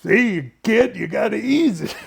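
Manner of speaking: high, loud show-off instruction; mock smug operator; imitating George. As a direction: feet up, showing the kid how it's done. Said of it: "thing and goes".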